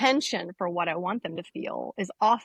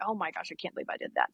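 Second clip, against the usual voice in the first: pathetic self-pity; 3 semitones lower, 5 dB quieter, faster than usual. Retold or imitated. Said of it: "I was always kind of pathetic".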